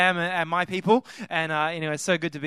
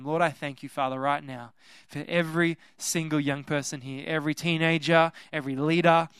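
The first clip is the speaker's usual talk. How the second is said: prayer; 2 semitones lower, 4 dB quieter than usual. Real, not acted. Speaker prays over the young people before the word, softly prayerful. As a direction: address God gently and earnestly.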